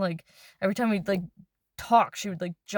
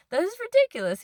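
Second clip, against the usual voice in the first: much higher, louder indignant cry; outraged disbelief; 12 semitones higher, 4 dB louder than usual. Retold or imitated. Telling the stranger off about her boyfriend, outraged disbelief. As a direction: scoff at how absurd it is.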